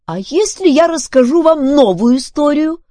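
high, loud wheedling offer; bargaining. A narrator's reading. Filbert offers Duncan a new story, bargaining. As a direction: haggle with pitch way up. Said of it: "начал торговаться Филберт".

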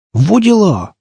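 high-pitched amazed squeal. A narrator's reading. Stalker sees the prize rifle, squeals. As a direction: yelp it out in amazement. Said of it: "взвизгнул кто-то".

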